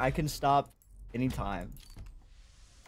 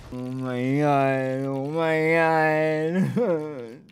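despairing groan; much slower than usual. Real, not acted. Bad luck continues.

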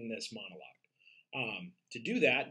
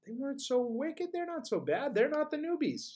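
higher, self-justifying villain whine; wicked stepsister voice; 12 semitones higher than usual. Shown as a demonstration. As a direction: play the stepsister defending herself. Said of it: "wicked stepsisters of Cinderella".

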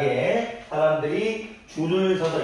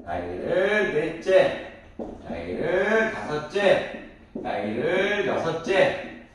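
slow ordinal drill, phrase by phrase; 2 semitones higher, much slower than usual. Shown as a demonstration. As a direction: stretch the lead-in, then land the ordinal. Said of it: "순서를 얘기할 때". (순서를 하나씩 천천히 끌며 읽어 주기)

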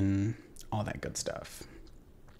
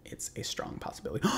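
soft unvoiced whisper; hushed conspiratorial whisper; 11 dB quieter than usual. Real, not acted. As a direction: whisper it like a secret plan. Whispering about saved wishes.

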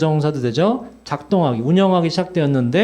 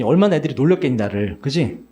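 ordinary delivery

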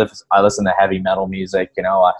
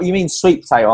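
shop worker; 11 semitones higher, 4 dB louder than usual. Retold or imitated. Retold worker finally understands.

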